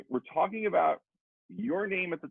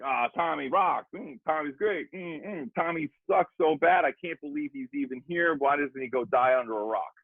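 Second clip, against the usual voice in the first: reading comments aloud; 3 semitones higher than usual. Retold or imitated. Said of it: "First one's like".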